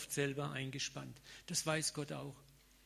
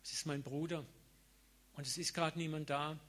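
softer, stopping yourself gently; quiet inner resolve; 4 dB quieter than usual. Retold or imitated. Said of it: "dass du sagst". (leise innere Entscheidung)

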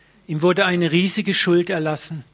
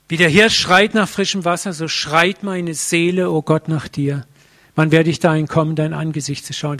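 psalm called out louder, yearning; crying out the psalm; 4 dB louder than usual. Retold or imitated. Preacher reliving how he cried the psalm to God. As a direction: cry it out like a thirsting deer. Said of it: "diesen Psalm ausgeschrien".

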